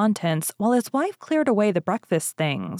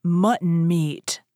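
slow, suspicious growling ogre; much slower than usual. Acted. Ogre sniffs the room and growls, lightly voiced. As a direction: sniff it out, slow and slightly menacing. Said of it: "he growled".

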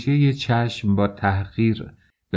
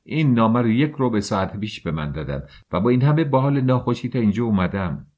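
raised, heated protest; student answering the officer, heated and indignant; giving in to anger; 3 semitones higher, faster than usual. Acted. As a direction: let the anger push the words up.

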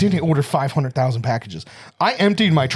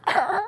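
very high, short imitated cry; comic high-pitched "ah" of effort; mock effort cry; 4 dB quieter than usual. Imitating her trying safety scissors as a weapon, mock effort cry.

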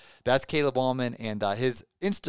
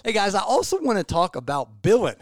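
a loud, high, playful Alabama twang on Billin; Alabama accent; 6 semitones higher, 6 dB louder than usual. Retold or imitated. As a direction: drop the g like in Alabama. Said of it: "That Alabama accent".

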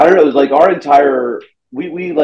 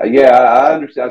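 lightly imitated thick Kentucky accent; Stuart Huff; 2 semitones higher, 4 dB louder than usual. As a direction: take on a comic's Kentucky accent. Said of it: "he's got the thickest accent".

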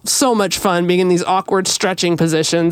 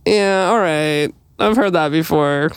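skeptical; 3 semitones lower than usual. Retold or imitated. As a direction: roll your eyes as you say it. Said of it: "I'm like".

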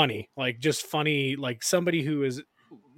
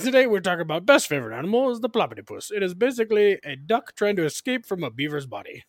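imitating Creepy Dave; 5 semitones higher than usual. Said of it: "this character he created called Creepy Dave".

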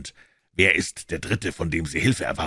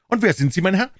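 put-on high, loud, sharp old voice; indignant old man; 14 semitones higher, 6 dB louder, faster than usual. A narrator's reading. Old man confronting Holmes over the papers, high and indignant.

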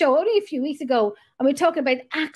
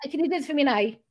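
imitated northern Irish request with "nay" for now; northern Irish accent; faster than usual. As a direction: put on a touch of Northern Irish. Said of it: "that's how they do it up the north".

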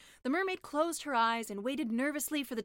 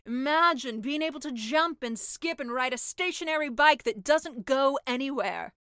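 selling sea witch; 3 semitones higher, 8 dB louder than usual. Acted.

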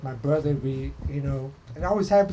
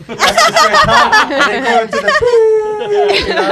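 high-pitched, laughing through the words; 12 dB louder, slower than usual. Real, not acted. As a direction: laugh while you tell it.

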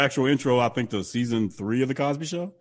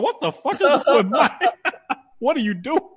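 laughing; 13 semitones higher than usual. Retold or imitated. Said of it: "I'm like".

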